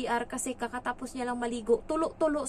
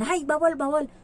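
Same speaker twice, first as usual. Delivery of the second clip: scolding; 6 semitones higher, 5 dB louder than usual. Retold or imitated. Old employer forbids the maid.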